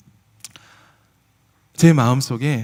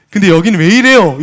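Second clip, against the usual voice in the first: blunt complaint; 4 semitones higher, 11 dB louder than usual. Retold or imitated. Employee's complaint retold.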